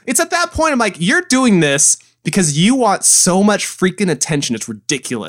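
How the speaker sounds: high, drawn-out comic disbelief; exasperated. Retold or imitated. Podcaster rants back at a YouTuber's endless requests, exasperated. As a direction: stretch the key words in incredulous exasperation.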